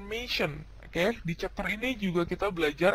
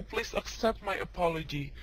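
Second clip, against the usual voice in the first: formal apology; 4 dB quieter, slower than usual. Shown as a demonstration. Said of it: "yang terakhir ini paling formal".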